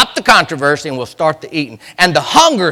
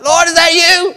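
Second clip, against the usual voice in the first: much higher called-out question; disciples crying out; 12 semitones higher, 6 dB louder than usual. Acted. Disciples to Jesus in storm, high cry. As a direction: cry out high across the water.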